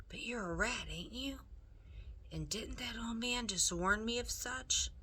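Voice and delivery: lightly voiced rough country girl, puzzled; a hint of a wary servant girl; Meg, rough serving girl.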